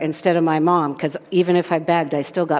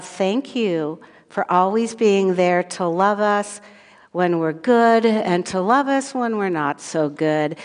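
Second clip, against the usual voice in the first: spoken prayer. Real, not acted. Leads children in a prayer.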